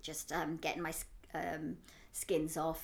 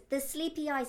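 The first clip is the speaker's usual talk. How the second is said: imitating a child; 8 semitones higher than usual. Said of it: "he goes".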